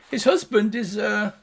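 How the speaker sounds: high gnome voice; gnome guard. Acted. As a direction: admit it awkwardly.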